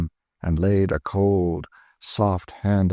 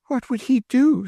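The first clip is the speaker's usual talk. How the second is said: high, breathless, hanging on her words; breathless interest. Acted. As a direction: ask with bated breath. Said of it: "looking with breathless interest".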